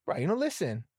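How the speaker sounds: high-voiced grandma threatening a whipping; be grandma warning of lickings. Grandma threatening to whip her grandson, high voice.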